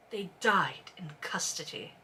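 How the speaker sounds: hushed, barely voiced; a low whispered confession. A narrator's reading. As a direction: breathe out the bad news softly. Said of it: "quiet bad news in book".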